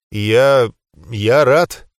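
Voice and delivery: stammered start, then a firm finish; halting. A narrator's reading. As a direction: barely get the words out, pausing after the first. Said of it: "только и смог выговорить я".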